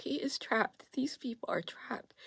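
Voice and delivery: soft, breathless whisper. Real, not acted. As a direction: say it under your breath. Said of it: "Oh, I'm gonna cry".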